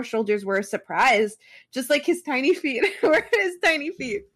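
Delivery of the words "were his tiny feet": laughing. Real, not acted. Laughing while reading fic.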